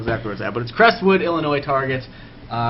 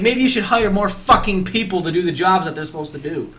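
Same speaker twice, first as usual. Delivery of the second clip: higher-pitched retold complaint; retold exasperation; 5 semitones higher than usual. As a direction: re-enact a fed-up worker's retort. Retold complaint to bosses at work.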